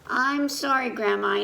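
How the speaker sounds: a lightly voiced child saying sorry; child apologizes to grandpa, lightly voiced; child's apology. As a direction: sound like a small kid. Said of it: "I said".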